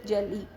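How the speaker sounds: "जे एल ई" said in separate syllables; split into syllables. Shown as a demonstration. Teacher showing learners two syllables, "जे एल ई" said syllable by syllable. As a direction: break "जे एल ई" into its spoken parts. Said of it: "दो syllable".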